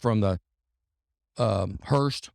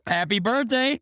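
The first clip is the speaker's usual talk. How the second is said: mock-suave Rick; 10 semitones higher than usual. Rick flashing the bow.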